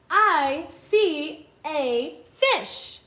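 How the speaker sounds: very slow, separated words; each word stretched with a gap after; word-by-word reading. Shown as a demonstration. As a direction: read it out slowly for beginners to follow. Modelling reading for young children.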